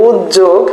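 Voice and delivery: উদ্যোগ pronounced uj-jog; j-sound variant. Shown as a demonstration. Teacher allowing another written answer, said with doubled j. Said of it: "তারটাও কিন্তু সঠিক".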